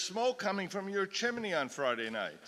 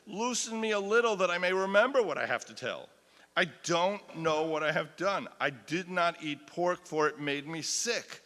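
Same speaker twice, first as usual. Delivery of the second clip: desperate plea; 3 semitones higher, 6 dB louder than usual. Acted. Acted plea of tortured woman.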